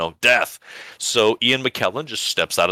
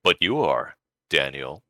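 calm Death; 4 semitones lower, slower than usual. Acted. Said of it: "calmly, expressionlessly".

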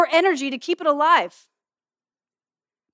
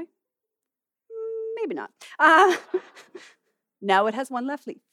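laughing at mishap; slower than usual. Real, not acted. Preacher laughing as the fake leaf won't reattach. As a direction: laugh it off as the leaf falls apart.

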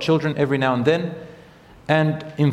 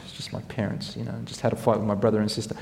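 put-on child's whisper; 5 semitones lower, 8 dB quieter, faster than usual. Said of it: "You okay?".

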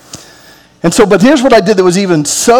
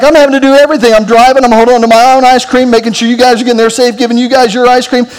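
retold exasperated rant; 3 semitones higher, faster than usual. Dad scolding his eight-year-old son in the car, exasperated. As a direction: huff at the kid like he should have helped.

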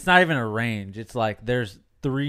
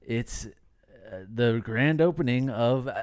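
halting attempt at a grand-opening announcement; a hint of announcer, unsure of the copy; commercial voice; 4 dB quieter than usual. Shown as a demonstration. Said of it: "this is a McDonald's commercial".

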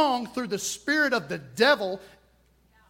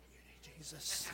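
nearly whispered, much softer and lower "You need Jesus"; hushed aside; 7 semitones lower, 22 dB quieter than usual. Acted. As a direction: drop it to a murmur for the room. Preacher's hushed aside to crowd.

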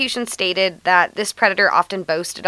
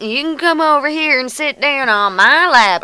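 lightly voiced, slightly higher creepy Santa; 4 semitones higher, 4 dB louder than usual. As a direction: coax it like a creepy stranger. Voicing the creepy fake Santa.

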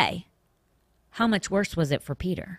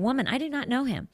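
higher, faster, flustered Peter denying; indignant denial; 6 semitones higher, 3 dB quieter, faster than usual. Shown as a demonstration. Preacher rereading Peter's denial, indignant and quicker. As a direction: Peter brushing off the servant girl, sharper. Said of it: "But let's see if he does".

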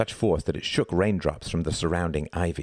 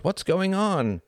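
high, plaintive woman's voice; high, wailing query; moaning; 14 semitones higher, much slower than usual. A narrator's reading. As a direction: moan the question with a headache. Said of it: "she moaned".

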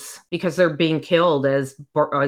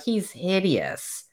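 disgusted hush; 6 dB quieter, slower than usual. Retold or imitated. Heroine's disgust on seeing him.

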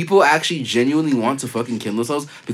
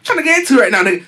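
high, taunting laughing mock; evil persona voice; 3 dB louder than usual. Imitating the rude TikTok troll mocking a sob story. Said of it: "evil ass persona".

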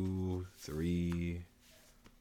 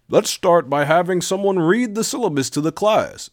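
teacher voice; 10 semitones higher, 6 dB louder than usual. Acted. Teacher's line in the story.

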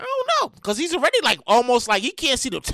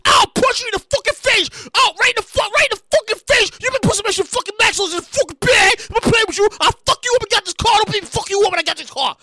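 mock customer rage; 4 semitones higher, faster than usual. Angry customer threatening worker.

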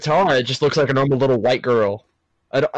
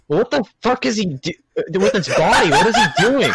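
laughing disbelief; 5 semitones higher, 4 dB louder than usual. Real, not acted. Laughing at hand gestures.

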